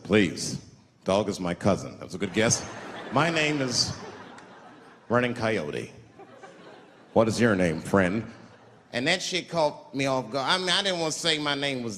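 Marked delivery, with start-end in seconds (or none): 0.0-8.2 a touch lower, dignified; lightly voiced Indian elder. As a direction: play the proud old man gently. Running Coyote voiced in story.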